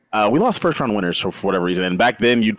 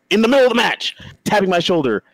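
indignant retelling; 8 semitones higher than usual. Retold or imitated. Retelling annoyance.

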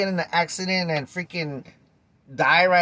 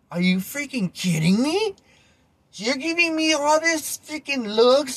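much higher and a bit louder, disbelieving; exasperated disbelief, much higher, slowing on what the hell; indignant rant; 8 semitones higher, 3 dB louder than usual. Retold or imitated. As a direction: vent the outrage, pitch climbing. Indignant inner rant at cook.

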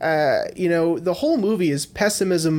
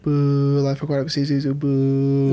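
mock booing. Mock booing at a film mention.

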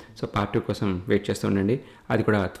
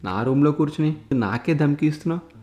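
angry threat; 5 semitones higher than usual. Acted. Politician threatens intruder in office.

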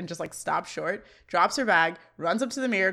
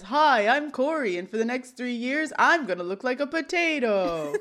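lightly voiced mocking kid sister, pitched up a touch; kid sister teasing; 3 semitones higher than usual. Little sister mocks Corey with a potato toy, lightly teasing. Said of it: "Morgan then sticks a Mister Potato Head".

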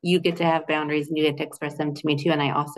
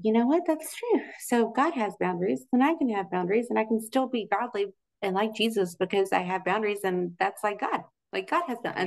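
excited realization; 4 semitones higher than usual. Retold or imitated. Retold realization.

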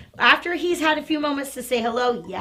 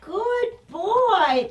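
slow, drawn-out high praise; lavish him with joyful praise; delighted praise; 6 semitones higher, much slower than usual. Real, not acted. Trainer celebrating her dog passing the test.

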